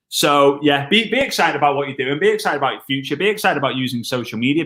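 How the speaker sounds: normal talking voice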